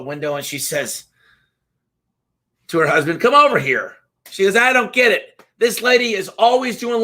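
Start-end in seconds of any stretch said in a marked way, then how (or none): 3.2-4.0 crabby wife. Acted. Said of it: "This woman is a pretty crabby lady".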